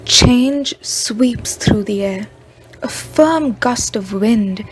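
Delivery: slow, deliberate poem reading; poetry recital. Acted. Student shares her poem on leaving campus, slow recital. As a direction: recite it slowly, leaning into each phrase's first words.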